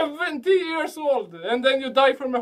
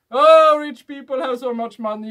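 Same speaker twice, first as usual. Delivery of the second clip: mock complaining; 7 dB louder than usual. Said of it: "you say".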